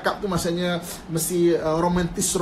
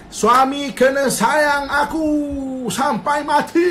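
slow, louder, mock insistent wife; demanding wife; 4 semitones higher, 3 dB louder, slower than usual. Wife insists her husband love her forever, mock demanding. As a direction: drag it out like a pouting demand.

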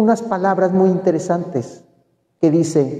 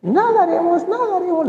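much higher, stretched whale-speak imitation; Dory imitating a whale, much higher; Doris whale talk; 11 semitones higher, faster than usual. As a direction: sing it out high like a fish talking whale. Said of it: "llega Doris y le dice".

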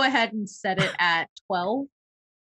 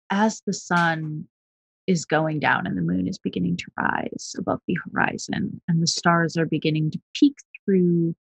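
slow, lowered storyteller voice; scene narration; 3 semitones lower than usual. Acted. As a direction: paint the nightfall slowly. Game master's scene setting.

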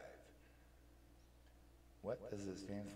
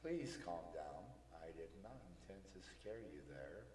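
soothing; 2 semitones lower, 7 dB quieter than usual. Acted. Speaker soothing the startled Neptune.

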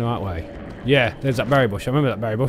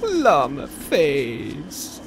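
drawn-out silly call; much slower than usual. Real, not acted. Silly name called out twice.

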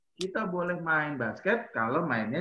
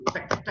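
gecko click; 4 dB quieter, much faster than usual. Shown as a demonstration. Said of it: "suara cicak ini nih".

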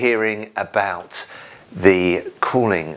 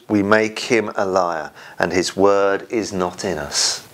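scripture reading. Acted. Reads scripture aloud in service.

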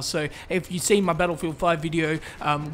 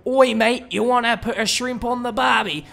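put-on stereotypical Australian accent; 5 semitones higher than usual. YouTuber imitating how typical Australians sound, hammed-up Aussie accent. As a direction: call it out in a broad mock-Australian accent. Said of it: "Australians normally sound something like".

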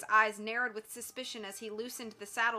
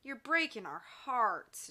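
cheerful teasing; slower than usual. Acted. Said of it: "George said cheerfully".

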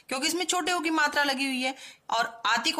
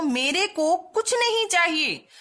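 higher and louder, slowly, stress on नहीं; slow loud reading; 5 semitones higher, 6 dB louder, slower than usual. Shown as a demonstration. Teacher reading the wrong sentence loudly to children. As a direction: read the wrong sentence out boldly. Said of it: "ये वाक्य भी हमारा wrong है".

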